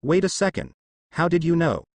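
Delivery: high, puzzled and startled; confused surprise. Acted. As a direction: catch on suddenly, baffled. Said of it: "gasping in confusion".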